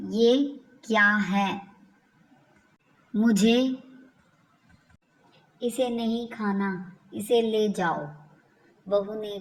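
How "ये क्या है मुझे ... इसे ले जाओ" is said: angry mother-in-law. Acted. Mother-in-law refuses the khichdi, angry and louder. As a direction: push the khichdi away in anger. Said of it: "गुस्से से".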